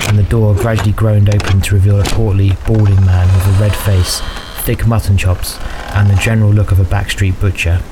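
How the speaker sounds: measured fantasy audiobook narration; story narration. A narrator's reading. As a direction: narrate a dark fantasy tale evenly.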